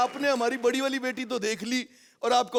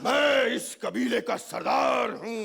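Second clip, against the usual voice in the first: slow, pompous chieftain declaration; grand proclamation; slower than usual. Acted. Tribal chief introducing himself to suitor, grand proclamation. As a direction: announce yourself slowly and grandly.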